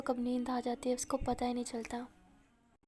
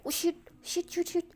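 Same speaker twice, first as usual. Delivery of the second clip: panicked rush; 4 semitones higher than usual. Acted. Panics about time before exam.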